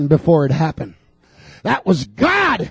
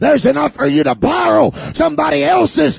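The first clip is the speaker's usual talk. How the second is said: full-force preaching; 6 semitones higher than usual. Acted. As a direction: build the sermon to a climax.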